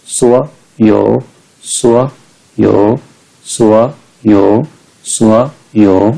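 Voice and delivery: सुआ rising as second tone, यो dipping third tone; third tone turned second. Shown as a demonstration. Teacher drilling students on tones, सुआ rising before dipping यो. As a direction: raise सुआ, then dip यो slowly. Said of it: "ऐसे".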